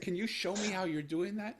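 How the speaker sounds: high, loud, still choked up; stunned plea. Retold or imitated. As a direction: beg to know, barely holding back tears. Father's retold plea, still overcome.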